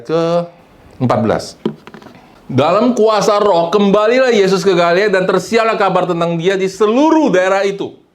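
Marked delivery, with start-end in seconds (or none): 2.5-8.0 loud, raised preacher's reading voice; high, ringing declaration of scripture; forceful scripture reading. Acted. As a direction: proclaim the verse at full force. Reads scripture aloud forcefully.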